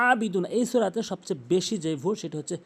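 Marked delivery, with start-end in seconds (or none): 0.1-0.5 আবিদু না opening from mid-throat; throaty ayn in আবিদু না; correct ayn. Shown as a demonstration. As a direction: squeeze the first a of আবিদু না. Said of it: "হলকের মাঝখান থেকে".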